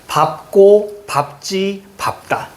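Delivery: 밥고, 밥지, 밥다, each starting with a clear 밥; demonstrated pronunciation. Shown as a demonstration. Teacher giving examples of the rule, demonstrated pronunciation. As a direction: list 밥고, 밥지, 밥다 with tense second syllables. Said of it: "자음이 오면 밥으로 발음합니다".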